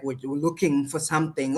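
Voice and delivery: usual speaking voice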